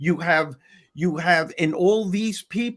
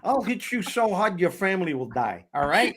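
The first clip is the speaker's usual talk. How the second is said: Brooklyn tough guy. Pretend. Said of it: "my Brooklyn accent".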